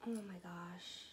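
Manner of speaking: gasp, then a soft, tearful voice; overwhelmed by a friend's gift, fighting back tears; choked up. Real, not acted. Opening a gift from her best friend, choked up and tearful. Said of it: "why I'm tearing up right now".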